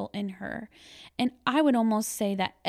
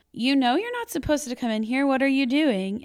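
raised, stern teacher reprimand, a bit higher and louder; 4 semitones higher, 5 dB louder than usual. Retold or imitated. Teacher scolding a boy who broke the rule, firm and raised. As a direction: catch him somewhere he shouldn't be.

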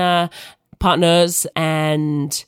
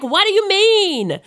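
put-on American accent; 12 semitones higher, slower than usual. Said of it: "my accent's terrible".

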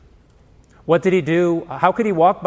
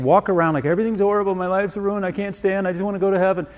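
mock-miserable whine, a bit higher; mock gloom; 4 semitones higher than usual. Preacher mocking fake Christian mourning, mock-miserable whine. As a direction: ham up the woe-is-me complaint. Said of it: "He's not talking about faking that".

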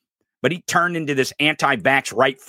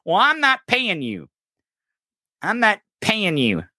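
mock Trump; 10 semitones higher than usual. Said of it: "Trump's like".

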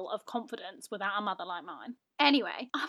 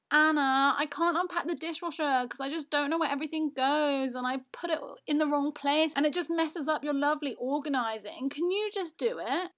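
lightly higher, pleading mum voice; mock helpless mum; 3 semitones higher than usual. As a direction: plead sweetly to get out of the chore.

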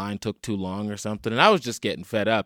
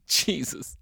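whispered exasperation; 5 semitones higher than usual. Retold or imitated. Muttering in disbelief at boss.

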